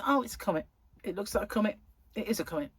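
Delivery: mocking. Mocking NASA's official line.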